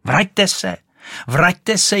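high shrieking call after her. Acted. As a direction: call her back at the top of your voice. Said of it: "ječela Rachejtle". (vysoký ječivý křik za kachnou)

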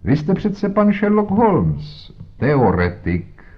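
high, slow mocking drawl on teoretik. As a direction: sneer at the armchair theorist. Jones mocks Holmes as theorist.

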